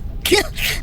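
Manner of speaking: quick, high, unvoiced snicker; mischievous giggle. God plotting to swap the frog, impish snicker. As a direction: giggle at your own prank idea. Joke about swapping Froki.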